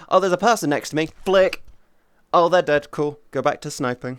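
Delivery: casual cocky retelling. Retold or imitated. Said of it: "I'd just be like".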